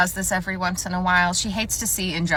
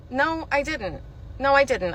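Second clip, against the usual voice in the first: higher, insistent denial; inner denial; 5 semitones higher than usual. Acted. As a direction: protest it to yourself. Inner panicked denial in interview story.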